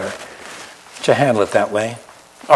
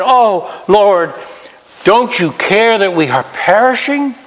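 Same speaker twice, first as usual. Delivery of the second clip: a touch of mock panic, higher; panicked disciples; 7 semitones higher than usual. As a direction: cry out to the Lord in the storm.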